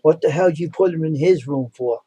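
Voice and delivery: mild mock angry scolding, slow; yelling at nurses. Hospital staff yelling at careless nurses, mild mock scolding. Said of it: "They're yelling at him".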